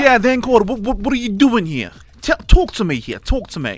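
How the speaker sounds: badly faked New York accent that slips into British. Co-host asked to do New York, botched New York accent. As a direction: attempt a brash New York mafia type. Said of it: "Can you do the New York accent?".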